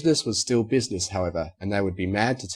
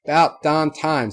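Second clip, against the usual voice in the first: slow, drawn-out country holler, louder; mock yell; 6 semitones higher, 7 dB louder, slower than usual. A pony in the back hollers in slow relief. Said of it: "someone in the back yelling out".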